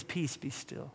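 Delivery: very soft, low hush; calm command. Acted. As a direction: still the storm with a quiet word. Acting Jesus calming the storm.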